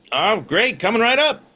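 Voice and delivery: upbeat, high service voice; chirpy bartender eager to serve; cheerful bartender. Acted.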